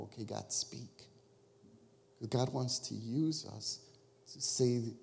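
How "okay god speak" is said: softer, hushed invitation; hushed okay God, speak; quiet prayer. Shown as a demonstration. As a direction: whisper it as an open prayer. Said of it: "Now is the time to go".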